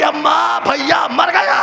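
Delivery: high, loud wailing cry of اماں; mock scream. A narrator's reading. Sister to the mother, high loud wailing scream. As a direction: scream out that the brother is dead. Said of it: "ایک چیخ ماری".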